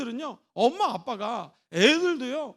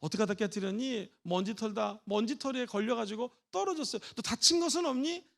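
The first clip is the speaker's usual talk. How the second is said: soft worried; 3 semitones lower, 4 dB quieter than usual. Shown as a demonstration. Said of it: "걱정해 줄 때".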